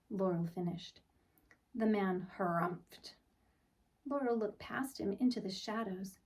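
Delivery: put-on gentle read-aloud for children; storybook narration. A narrator's reading. Teacher reading a picture book to the class, storybook voice. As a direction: tell it like bedtime story time.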